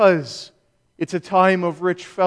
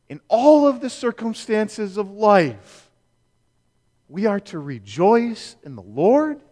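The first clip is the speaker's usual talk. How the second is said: rhetorical question, rising at the end; lilting up into a question on Lord; 3 semitones higher than usual. Acted. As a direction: put it as a doubter's question, awaiting an answer. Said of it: "the answer is yes".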